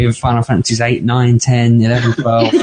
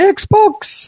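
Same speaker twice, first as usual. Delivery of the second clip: amateur, very high-pitched put-on Newcastle accent. Showing how they talk to the Xbox, in a put-on Newcastle accent. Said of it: "if I put a Newcastle accent on".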